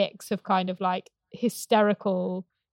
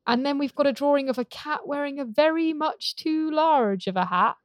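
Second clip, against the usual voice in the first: stiff awkward speech; 4 semitones higher, 4 dB louder than usual. Retold or imitated. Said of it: "stilted reading voice".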